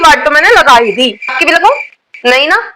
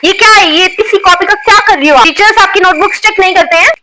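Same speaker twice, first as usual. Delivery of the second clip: lightly voiced strict schoolteacher, scolding the class; a teacher catching girls with nail paint, scolding; stern teacher scolding. Strict teacher checking student bags.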